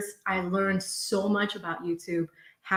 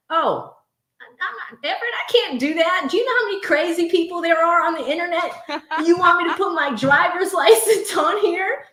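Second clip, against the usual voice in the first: laughing refusal; 7 semitones higher, 5 dB louder than usual. Real, not acted. Refusing to show driver's license.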